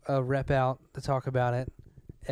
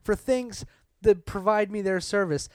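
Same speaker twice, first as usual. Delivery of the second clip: raised pitch, indignant venting; worked-up rant; 5 semitones higher than usual. Real, not acted. Venting to co-host about hidden fees, worked-up rant. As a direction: rant about the bill like a fed-up comic. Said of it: "sorry for going all Dennis Leary".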